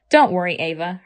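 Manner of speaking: reassuring. Acted. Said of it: "her mother reassured her".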